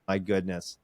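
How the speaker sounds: quiet exasperated mutter; muttered under breath. Retold or imitated. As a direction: grumble it softly to yourself. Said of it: "I'm cussing in my head".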